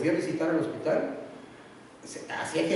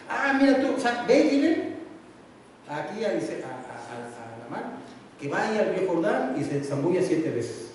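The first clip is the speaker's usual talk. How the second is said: dismissive prophet. Acted. Eliseo brushing off the general.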